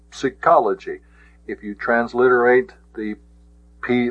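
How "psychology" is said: psychology with an audible P before the s; pronounced P. Shown as a demonstration. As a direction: sound out the silent P in psychology. Sounding out Greek psi in psychology.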